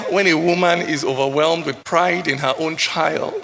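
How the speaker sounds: ordinary talk, nothing marked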